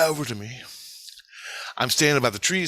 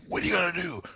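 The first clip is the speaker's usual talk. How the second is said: mock challenge; 6 semitones higher, faster than usual. Retold bluff charge in his face.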